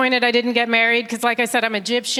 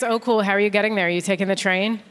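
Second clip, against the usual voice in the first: bored Londoner; 2 semitones lower than usual. Retold or imitated. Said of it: "All you ever say".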